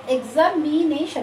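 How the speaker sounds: এক্সামিনেশন slowly broken into its syllables. Shown as a demonstration. Teacher trying an example for students, এক্সামিনেশন syllable by syllable. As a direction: count out the beats of এক্সামিনেশন. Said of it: "ট্রাইসিলেবল হচ্ছে".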